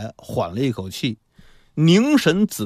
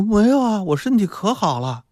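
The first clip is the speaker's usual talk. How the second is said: mother brushing off worry, pitched up; reassuring; 9 semitones higher than usual. A narrator's reading. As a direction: reassure the child in a higher voice. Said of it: "母亲反过来就安慰他".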